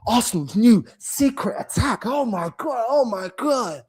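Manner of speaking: slow, lightly mocked gushing; drawn-out mock amazement; mock hype. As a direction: imitate a fan gassing up a new tactic. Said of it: "you've been gassing it".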